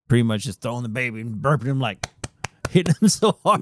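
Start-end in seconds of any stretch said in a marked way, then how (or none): 2.7-3.6 high, loud comic burst; excited exaggeration. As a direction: blurt it out, much higher. Joking about burping second baby.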